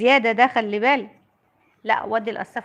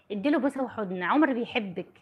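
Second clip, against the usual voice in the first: softer, laughing gently while urging; soft laughing coax; 3 semitones lower, 8 dB quieter than usual. Real, not acted. Mother coaxing her daughter to hug and kiss, soft and laughing.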